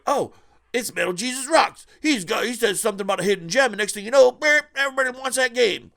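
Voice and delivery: high, loud whiny complainer; mocking whiner. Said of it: "a lot of people point".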